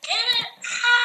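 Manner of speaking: high burst of laughter; laughing. Real, not acted. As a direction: laugh loudly at your own joke. Laughing at own joke.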